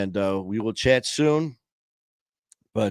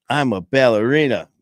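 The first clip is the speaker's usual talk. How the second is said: put-on little girl in joke; 3 semitones higher, 6 dB louder than usual.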